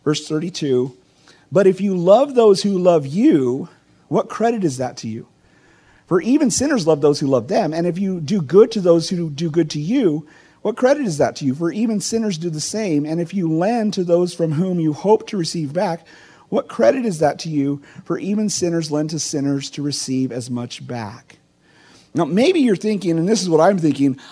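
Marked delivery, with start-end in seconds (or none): 1.5-3.7 measured, solemn Bible reading; scripture reading. Acted. Reads the Bible passage aloud. 6.1-21.4 measured, solemn Bible reading; scripture reading. Acted. Reads the Bible passage aloud.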